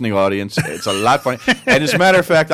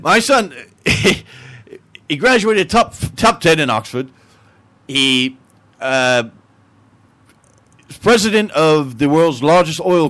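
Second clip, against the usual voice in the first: put-on Englishman accent; 2 semitones higher than usual. Englishman boasting of his son's success, English accent. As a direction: restart the brag as an Englishman. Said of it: "The Englishman says".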